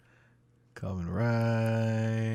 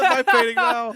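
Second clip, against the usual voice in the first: loud mock claim; 13 semitones higher, 7 dB louder than usual. Playful grabbing claim.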